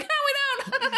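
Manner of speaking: high-pitched mock answer dissolving into laughter; laughing. Friend mocking wedding guests' reply, laughing. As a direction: crack up while squeaking out the answer.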